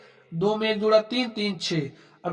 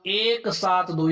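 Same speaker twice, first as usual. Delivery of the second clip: slow digit reading; much slower than usual. Shown as a demonstration. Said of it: "दशमलव के बाद ऐसे ही पढ़ा जाता है".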